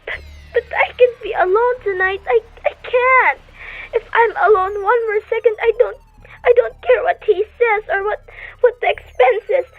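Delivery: frightened, near hysteria; panicky pleading. Acted. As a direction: fight off panic at being alone. Panicked invalid pleading to be not alone.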